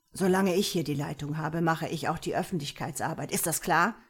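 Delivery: a touch of officious rasp; understated rasped command; rasping authority. Acted. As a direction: lay down the law as the boss. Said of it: "schnarrte er".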